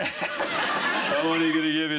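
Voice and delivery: badly faked Scottish accent; hammed-up Scottish accent. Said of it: "worst Scottish accent in the history".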